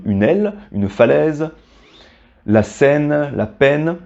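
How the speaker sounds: aile, falaise, scène, peine with an open è; word-by-word model of aile, falaise, scène, peine. Shown as a demonstration. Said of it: "ça se prononce est".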